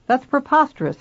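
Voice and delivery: father appalled at his daughter's words; indignant outburst. A narrator's reading. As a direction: burst out in disbelief. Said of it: "he said".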